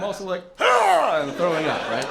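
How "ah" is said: loud, high mock yelp of vomiting; mock retching cry. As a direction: act out throwing up. Acting out throwing up.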